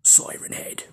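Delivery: breathy whispered creepy reveal; spooky whisper. Acted. Spooky whisper naming the monster for viewers. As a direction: whisper the name like a ghost story.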